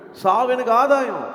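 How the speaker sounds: high, loud, slow proclamation; ringing preacher's emphasis; emphatic declaration. Shown as a demonstration. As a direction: proclaim it triumphantly, drawn out. Repeats the verse with force.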